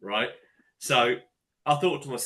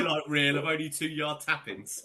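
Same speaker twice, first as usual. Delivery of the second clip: laughing through a mock complaint; laughing protest; 7 dB louder than usual. Real, not acted. Teasing his mate over tap-ins, laughing as he speaks. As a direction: chuckle the words out as he teases. Mocking mate's tap-in goals.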